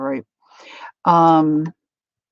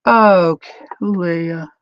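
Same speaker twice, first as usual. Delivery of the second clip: exclaiming; 2 semitones higher, 9 dB louder than usual. Retold or imitated. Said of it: "Calico Kate said".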